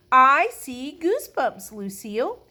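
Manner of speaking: high, loud eager announcement; excited. A narrator's reading. Sheldon tells Lucille of his goosebumps, excitedly. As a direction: burst out to win her notice.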